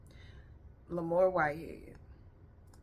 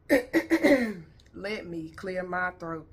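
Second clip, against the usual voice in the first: throat clearing; 6 dB louder, much slower than usual. Real, not acted. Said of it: "clears throat".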